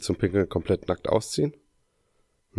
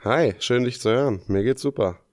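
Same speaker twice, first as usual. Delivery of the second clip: blocked nose after surgery; talking through a stuffed-up nose; stuffy nose; 4 semitones higher than usual. Real, not acted. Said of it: "du klingst nicht so super".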